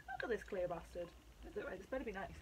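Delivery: conspiratorial whisper at the bottle; whispered mock insult. Real, not acted. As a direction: hush it like a secret.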